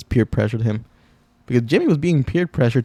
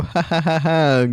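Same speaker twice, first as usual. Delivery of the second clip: breaking into laughter; real helpless laugh; 5 semitones higher than usual. Real, not acted. Cracking up at the clip.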